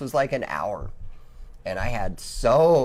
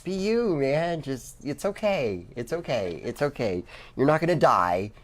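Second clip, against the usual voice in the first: reassuring; 4 semitones higher than usual. Retold or imitated. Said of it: "you're just like".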